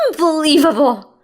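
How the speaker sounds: high loud scorn; scornful. A narrator's reading. Mother-in-law disgusted at Heather, high scornful. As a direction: spit it out in disgust. Ruth scolding.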